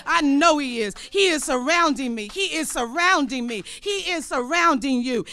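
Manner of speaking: loud, emphatic proclamation; preaching declaration. Real, not acted. Preacher assuring the congregation, loud and emphatic.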